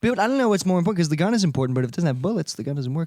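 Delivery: a loose Trump impersonation, trailing down. Acted. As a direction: ramble like a lightly imitated Trump. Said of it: "your Trump is, like, sliding".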